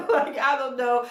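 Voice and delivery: laughing through the words. Real, not acted. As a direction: chuckle while saying it. Laughing at her own opinion.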